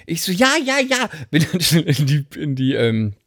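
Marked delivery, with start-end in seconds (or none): 0.3-1.1 high, quick dismissive yeses; hasty yes. Retold or imitated. Brushing off the doctor, high hasty yeses. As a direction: rattle them off high.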